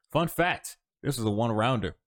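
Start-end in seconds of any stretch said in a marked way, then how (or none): 0.1-0.8 high and loud; playful announcement. Real, not acted. Host announcing a trivia note.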